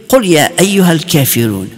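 rapid recitation. Retold or imitated. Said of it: "I remember him starting to read".

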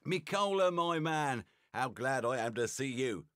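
glad greeting. Acted. Sarunia greets an old friend.

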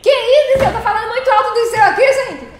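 high, loud and laughing, half-joking protest; loud laughing outcry. Real, not acted. Streamer teasing a loud voice in chat, laughing loud. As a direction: shout it through laughter at the booming voice.

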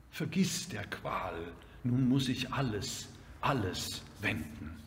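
measured lyrical reading with strong swells; poem recitation. Acted. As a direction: declaim the exclamations, then ease into consolation.

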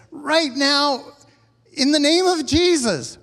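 loud, high command; commanding rebuke. Acted. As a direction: rebuke it with full authority. Acts Jesus rebuking the storm.

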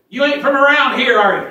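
high, loud teasing Southern twang; Southern local. Retold or imitated. A North Georgia local quizzing the Yankee preacher, high and loud Southern. Southern resident questions Ohio visitor.

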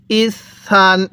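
ইসান with the s held long, ending on a dental n; doubled consonant. Shown as a demonstration. Teacher answering how to read tanween, doubled s held long. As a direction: stretch the s in ইসান. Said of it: "তাহলে কিভাবে পড়ব?".

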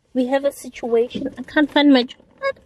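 playful mock emergency; mock urgent. Real, not acted. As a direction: play it like an emergency. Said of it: "what a dramatic intro".

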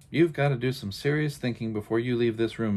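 a touch of stern motherly lecture; lecturing mother. Acted. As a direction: lay down the law, mildly. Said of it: "The lecture went on".

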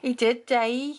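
echoing the sing-song Black Country line; Black Country accent. Shown as a demonstration. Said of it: "saying it in Black Country accent".

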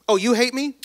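high-pitched rising question; breezy, lilting feigned interest; mock surprised. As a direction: brush off the hater with airy surprise. Acts out replies to fans, haters.

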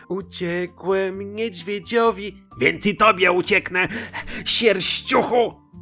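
high, drawn-out boasting chant; boastful Pancake. Acted.

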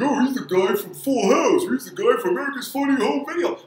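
lifted, sing-song take on casual fans; mocking the fans. Mocking casual fans who only know his sitcom, sing-song. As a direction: toss it off like a naive fan gushing. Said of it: "he's like".

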